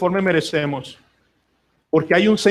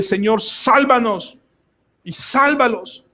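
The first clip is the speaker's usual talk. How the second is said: slow fervent prayer; 5 semitones higher, much slower than usual. Pretend. Family praying on their knees.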